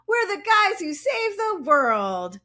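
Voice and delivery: slow, high hammed-up hero line; mock heroic Sam; heroic declaration. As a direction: deliver it like a superhero. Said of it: "And Sam".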